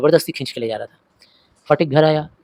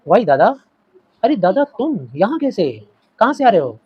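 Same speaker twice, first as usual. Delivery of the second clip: surprised greeting; 4 semitones higher, 4 dB louder than usual. Acted. Mother greets her long-lost brother, surprised and glad. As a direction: gasp with delight at seeing him. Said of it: "surprise होके बोली".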